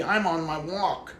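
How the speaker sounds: slow, stiff, mechanical mock of a stranger; mimicking a stranger's stuck, rigid thinking in a slow drone; stiff robotic mock. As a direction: drone out her schedule like a robot. Voicing her rigid thoughts.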